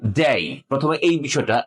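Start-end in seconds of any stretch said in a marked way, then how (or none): 0.1-0.6 ডে as a gliding "dey"; demonstrated pronunciation. Shown as a demonstration. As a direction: say ডে with a full "ay" diphthong, falling. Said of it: "এখানে যে ডে উচ্চারণ হচ্ছে".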